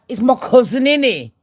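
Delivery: lightly voiced Britney answering the crowd, high and loud; mock Britney reply. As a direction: toss it back breezily, a light mock of her. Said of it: "And she's like".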